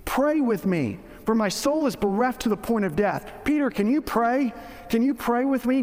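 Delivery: understated imitation of an earnest plea; retold pleading. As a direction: plead gently with a friend, acted lightly. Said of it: "Jesus pleaded with Peter".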